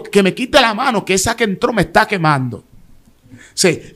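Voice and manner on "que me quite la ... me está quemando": higher, strained plea to be let go; retold screaming. A man on the floor begging the prophet to stop touching him. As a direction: beg them to take the hand off. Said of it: "y yo estoy gritando".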